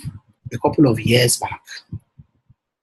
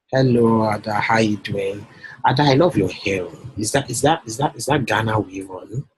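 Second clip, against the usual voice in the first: flattering sweet talk. Acted. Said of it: "When my wife sees me talking like this".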